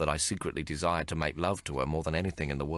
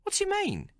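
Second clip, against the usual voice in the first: Maggie, much higher, truly amazed; genuinely astonished. Acted. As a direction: blurt it out in real surprise. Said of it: "genuinely astonished".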